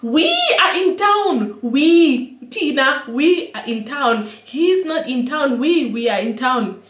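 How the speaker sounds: high, slow mocking repeat; mocking echo. Mocking the drunk guy to her sister, high slow echo. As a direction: throw his words back at him.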